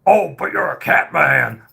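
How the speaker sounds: mock offended hater. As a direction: jeer like an internet troll. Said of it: "impression of the average hate mail chat".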